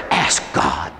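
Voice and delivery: deep, low demon retort; demon's challenge. Retold or imitated. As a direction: imitate the demon answering, dropped very low. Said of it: "He said".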